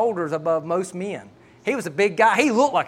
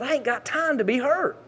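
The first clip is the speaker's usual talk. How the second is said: frustrated fussing; 7 semitones higher than usual. Retold or imitated. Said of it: "I'm just fussing".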